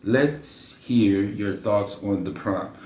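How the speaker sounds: slow halting read-aloud; mock-slow reading of the prompt; reading slowly. Shown as a demonstration. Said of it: "Why I'm reading like I'm slow?".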